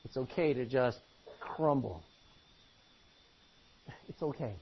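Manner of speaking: low, soft, soothing tone; hushed pastoral comfort; gentle reassurance. Shown as a demonstration. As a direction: let them off the hook softly. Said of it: "nod your head and say".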